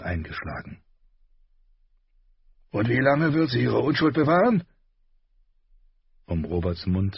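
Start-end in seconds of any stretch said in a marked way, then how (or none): 2.7-4.6 raised, scornful king voice; warrior king. A narrator's reading. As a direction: sneer it like a war king. Robert voiced in audiobook.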